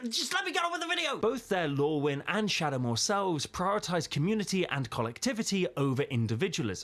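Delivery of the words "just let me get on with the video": very high-pitched, fast spluttering. Host breaks off from a smart viewer to continue the video, spluttering.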